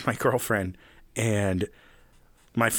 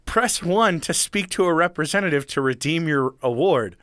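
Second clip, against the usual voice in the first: higher, chirpy sales pitch parody; lightly mocked recorded sales offer; mock robocall voice; 6 semitones higher than usual. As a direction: play a cheesy automated promo. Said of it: "the stupid thing that's like".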